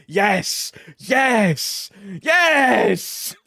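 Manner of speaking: hammed-up victory yells, rising in excitement; triumphant shouting. Streamer celebrating plus twenty, triumphant escalating shouts.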